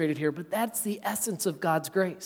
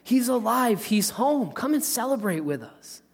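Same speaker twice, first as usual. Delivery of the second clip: joyful father; 4 semitones higher than usual. Retold or imitated. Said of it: "He said".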